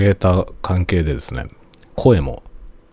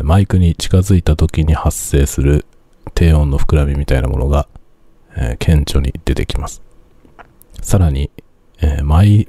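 louder, right up on the mic; close to the mic; 6 dB louder than usual. Real, not acted. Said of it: "だいぶ近づいてきました".

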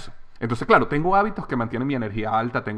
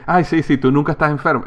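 mocking friends; 4 semitones higher, 5 dB louder than usual. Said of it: "amigos que se burlan de mí".

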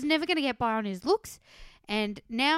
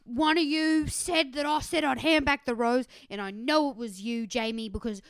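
louder, accusing retelling; mock anger; 5 dB louder than usual. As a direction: act out an indignant accusation. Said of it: "got really angry".

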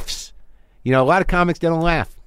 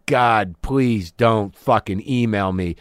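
lower, slow, grumbled plea; muttered annoyance; 4 semitones lower, slower than usual. Shown as a demonstration. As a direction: grumble it to yourself. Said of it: "I was talking to a made-up person".

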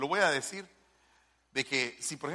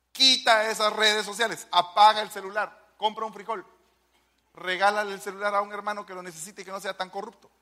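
louder, higher commands, faster at the end; preaching command; 4 semitones higher, 4 dB louder than usual. Real, not acted. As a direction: order them firmly from the pulpit. (órdenes predicadas con fuerza)

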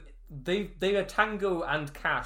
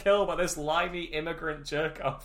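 freaking out; 5 semitones higher than usual. Retold or imitated. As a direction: rant it like you've lost it. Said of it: "he just freaks the fuck out and goes".

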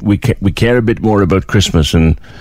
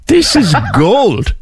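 slow "This is gold" broken by a real laugh; 8 semitones higher, slower than usual. Real, not acted. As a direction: laugh right through the middle of it. Host laughing at the pool story.

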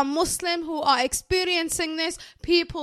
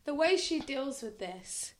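whisper; 11 dB quieter, slower than usual. Real, not acted. Advising to be sensitive, whispering.

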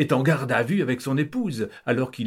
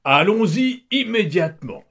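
high, louder call to set off at once; eager rallying cry; 9 semitones higher, 6 dB louder than usual. Acted. Count urging his family, loud eager call. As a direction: rouse the family to leave now.

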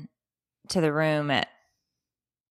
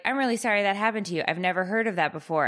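fast, high, canned apology; scripted sympathy voice; 3 semitones higher, faster than usual. Retold or imitated. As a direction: rattle off a rehearsed apology. Retold Apple employee sympathizing.

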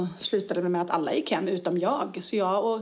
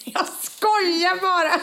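laughing; 11 semitones higher, 4 dB louder, slower than usual. Real, not acted. Laughing after teasing her co-host.

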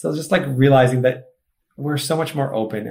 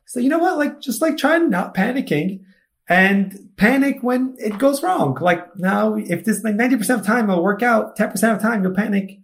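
emphatic big-brother advice; 9 semitones higher than usual. Retold or imitated. Lecturing his panicky brother Amir.

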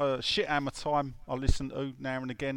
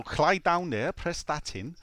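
lightly hammed Welsh lilt; mock Welsh accent; 3 semitones higher, slower than usual. Teasing co-host about Welsh speakers, mock Welsh accent. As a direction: put on a broad Welsh accent. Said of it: "When they give it all that boy or lucky".

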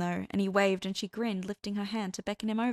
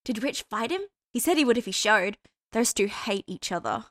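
put-on gushing girl; 3 semitones higher, 6 dB louder than usual. A narrator's reading. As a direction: swoon over the bad boy. Hester gushing about Dean.

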